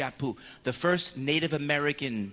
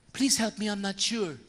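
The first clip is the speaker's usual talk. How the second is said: hesitant penitent; 5 semitones higher than usual. Retold or imitated. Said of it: "you can say".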